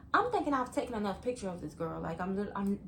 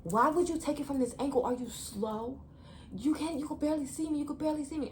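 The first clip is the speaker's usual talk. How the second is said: retold mad rant; 5 semitones higher than usual. Friend angry over ugly pictures, higher mock rant at the speaker. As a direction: act out a friend getting in your face. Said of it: "in my face mad".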